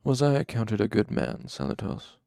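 a tired, weary question; a weary man asking his old friend. Acted. Weary and heavy. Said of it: "There was a weariness in his voice".

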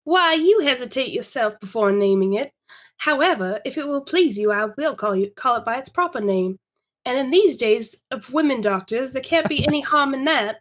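measured period-story reading; story narration. Acted. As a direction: read it aloud as a storyteller. Reads Laura's part.

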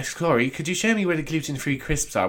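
lightly affected fake posh accent; mock a customer's put-on posh accent; polite request in a fake accent. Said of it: "Which is not an accent".

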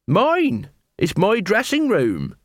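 put-on high, drawn-out old woman; beggar queen. Beggar queen answers the corporal, high slow voice.

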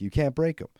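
mock insistence. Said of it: "He's like".

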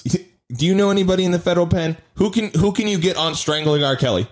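hammed-up nervous scheming; mock panicked. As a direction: play a worried conspirator fishing for help. Acting out panicked celebrities plotting.

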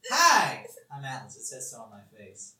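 character introduction. Acted. Player introduces character Atlas.

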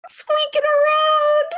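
slow, high, laughing through the words; after laughing hard. Real, not acted. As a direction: savor the pun while cracking up. Repeats own punchline laughing.

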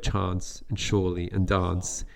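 imitated posh British vowels, long "ah" in chance and dance; lightly mocked British accent. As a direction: mimic a put-on British pronunciation. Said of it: "when we would hear them speak".

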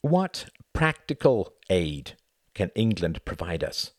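slow, a touch of scorn; slow and lightly contemptuous; scornful. Acted. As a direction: Laval mocks England's help, mildly scornful. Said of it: "The scorn in his voice was unmistakable".

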